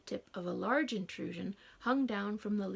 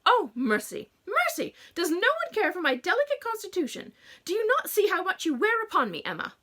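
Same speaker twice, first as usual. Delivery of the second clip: loud, high wailing plea; hammed-up fragile mother; melodramatic mother; 8 semitones higher, 8 dB louder than usual. A narrator's reading. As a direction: beg for pity dramatically.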